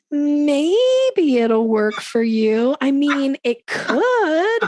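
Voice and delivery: very slow, high, stretched-out hedging; mock doubt, "could" drawn out and rising high; unsure. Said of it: "you can often sound unsure".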